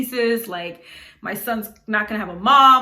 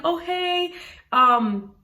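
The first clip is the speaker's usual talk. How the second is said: fake friendly act. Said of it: "So this is me acting".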